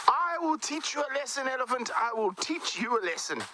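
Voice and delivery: high-pitched fierce little threat; angry squirrel threat. Acted. The squirrel threatening the elephant, high and fierce. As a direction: puff up and warn the giant. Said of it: "Squirrel got very angry".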